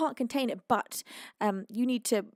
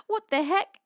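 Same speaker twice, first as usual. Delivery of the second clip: surprised; 7 semitones higher, 5 dB louder than usual. Real, not acted. Misreading a chat message.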